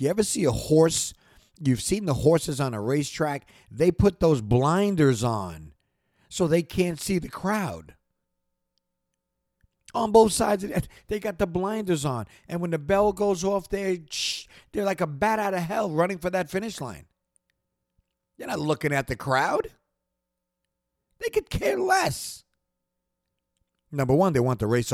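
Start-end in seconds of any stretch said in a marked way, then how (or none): 0.0-19.7 getting excited. Real, not acted. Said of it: "I just got excited". 21.2-22.4 high, slow, shouted burst; real excited shout at the height of a motivational rant. Real, not acted. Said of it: "Whew, I'm sorry".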